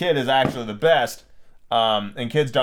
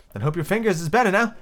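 politely voiced girl, pitched up; 6 semitones higher than usual. A narrator's reading. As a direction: ask politely in a higher voice. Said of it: "Alice said very politely".

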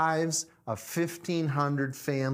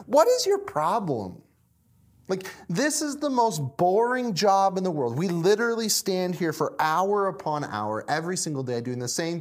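exasperated snapping; 3 semitones higher than usual. Acted. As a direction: snap at him in fed-up disbelief. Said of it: "snaps at Jim and barks across".

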